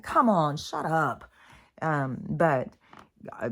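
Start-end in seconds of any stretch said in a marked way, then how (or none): 0.0-1.2 louder, fed-up mock call at the dogs; a mild exasperated yell; exasperated scold. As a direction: tell the dogs off, half-annoyed. Her own mild scold at dogs.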